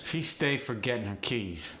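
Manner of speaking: light AAVE delivery. Shown as a demonstration. Teacher showing "stay" for habit, AAVE. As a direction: say it with an AAVE lilt. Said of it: "Stay is the first one".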